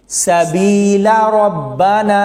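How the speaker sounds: सबीला recited slowly with short final vowel into रब्बाना; connected reading. Shown as a demonstration. Teacher showing reading without a stop, slow recitation. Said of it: "तो ऐसे पढ़ेंगे".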